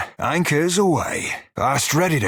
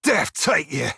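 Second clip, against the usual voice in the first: shouted curse; 3 semitones higher than usual. Acted. Threat to an enemy, shouted.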